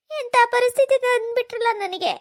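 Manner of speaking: wailing through tears; crying. Acted. Wife blaming fate for her situation, crying. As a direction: lament it, voice breaking. Woman lamenting her lost husband.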